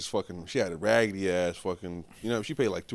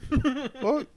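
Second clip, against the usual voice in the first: loud exasperation; 6 dB louder than usual. Retold or imitated.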